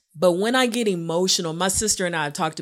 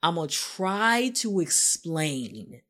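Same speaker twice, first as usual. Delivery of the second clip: earnest plea. Retold or imitated. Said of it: "I was like".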